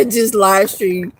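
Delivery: slow words broken by giggles; giggling about the mischievous plan; laughing through it. Real, not acted. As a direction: laugh while you say it, drawn out.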